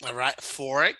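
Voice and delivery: usual speaking voice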